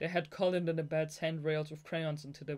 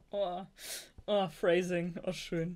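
amused; 3 semitones higher, 5 dB louder, slower than usual. Real, not acted. Reader laughing at innuendo.

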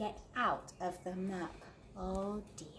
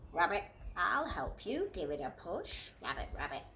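a hint of a croaking frog, dropping lower; lightly croaky frog; 4 semitones lower than usual. Frog offering help to the stuck duck, lightly croaking.

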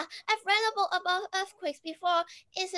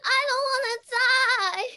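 higher, louder panicked cry; 6 semitones higher, 8 dB louder than usual. Acted. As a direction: cry out in fear for your life. Panic in the earthquake.

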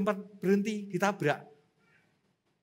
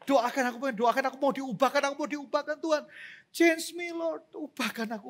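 urgent plea; 4 semitones higher, 3 dB louder than usual. Retold or imitated. Re-enacting plea at altar call.

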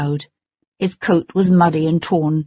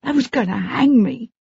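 put-on high pleading young Cockney boy; distressed boy; 6 semitones higher than usual. A narrator's reading. Frightened boy pleads innocence to his lord. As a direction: swear your innocence, desperate. Tom's voice.

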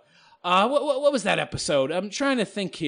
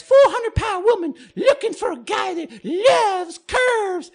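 higher, slow mocking ad-reader voice; mock personal ad; 12 semitones higher, slower than usual. Vlogger mocking an imagined dating ad, mocking ad voice. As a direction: read it like a cheesy ad, teasing.

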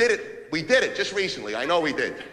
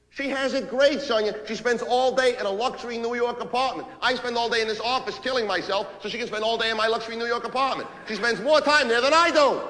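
indignant rant; 5 semitones higher than usual. Acted. Husband to Sonia about the luxury apartment, indignant. Ranting at wife, building in anger.

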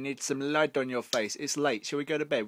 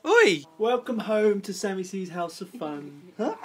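excited greeting; 9 semitones higher, 10 dB louder than usual. Real, not acted. Greeting Gemma arriving.

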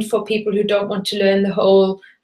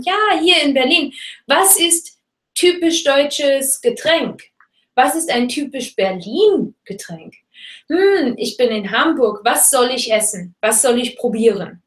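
curious tourist; 3 semitones higher than usual. Shown as a demonstration. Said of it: "Kannst sagen".

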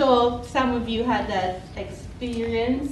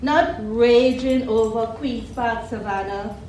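slow, deliberate poem reading; measured live poetry reading with weighted pauses; poetry recital; slower than usual. Acted. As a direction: recite it line by line, lingering on the images.

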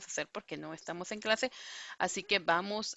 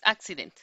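accident said with a firm first syllable; stress on ACcident; 2 semitones lower, 4 dB louder, faster than usual. Shown as a demonstration. Teacher showing students the right stress on accident. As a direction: model the correct accident, first syllable hit. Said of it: "porque no es accident".

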